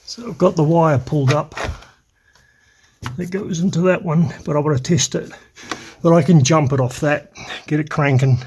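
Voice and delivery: panting a little between phrases; out of breath. Real, not acted. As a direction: talk while still catching your breath. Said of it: "Sorry, I'm out of breath".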